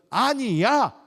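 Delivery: high, loud, firm no; emphatic refusal. Acted. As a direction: act out a forceful objection. Acted Jesus firmly refusing the crowd.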